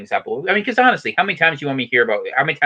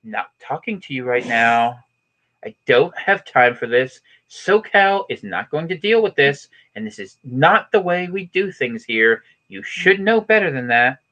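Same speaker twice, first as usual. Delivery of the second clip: hint of a clueless Californian, emphatic and dismissive; lightly put-on SoCal brush-off with pauses; Californian accent; 4 semitones higher than usual. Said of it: "I could be Californian".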